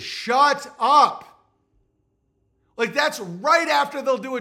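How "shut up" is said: sharp, louder shut up; angry retort. Real, not acted. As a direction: cut them off hard. Ranting dismissal to viewers.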